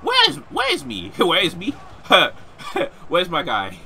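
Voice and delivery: high, loud, flustered question; worked up. Real, not acted. Gamer losing his character on screen, worked-up high yell. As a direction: cry out, lost and flustered. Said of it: "I'm getting so worked up".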